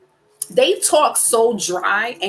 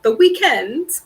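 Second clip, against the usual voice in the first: put-on British accent; slower than usual. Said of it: "they pronounce their words so differently than us".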